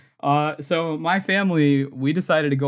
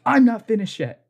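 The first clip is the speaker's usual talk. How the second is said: angry customer; 8 semitones higher, 4 dB louder than usual. Retold or imitated. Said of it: "then she's like".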